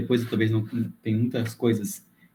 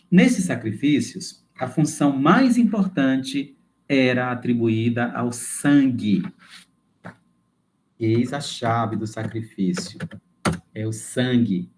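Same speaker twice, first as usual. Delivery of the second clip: slow, deliberate reading aloud; measured, emphatic teaching delivery; formal text reading; slower than usual. Acted. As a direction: read it out slowly, weighting the key words. Reads lesson text with emphasis.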